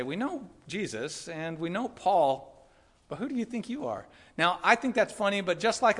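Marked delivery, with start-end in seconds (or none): 0.0-4.1 slow, lightly voiced demon, drawn-out words; demon's challenge. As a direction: taunt them slowly, lifting the last question. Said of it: "the demons say".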